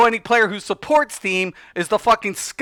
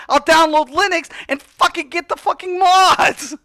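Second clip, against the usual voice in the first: angry rant; 4 semitones higher than usual. Real, not acted. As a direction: vent real frustration at the companies. Ranting about console exclusives.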